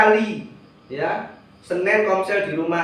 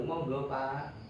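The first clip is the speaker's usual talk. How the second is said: polite Javanese; 5 semitones lower, 11 dB quieter, slower than usual. Retold or imitated. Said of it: "Orang Jawa itu selalu".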